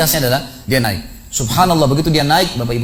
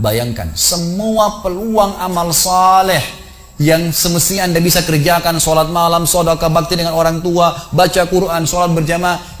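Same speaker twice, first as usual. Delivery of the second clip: impassioned exhortation; 3 semitones higher than usual. Retold or imitated. Re-enacts exhorting man playing corpse.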